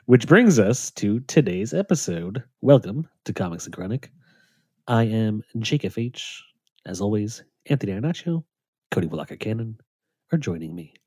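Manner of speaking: calm public radio announcer; smooth radio host intro; NPR intro voice. Pretend. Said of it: "That was my N P R intro".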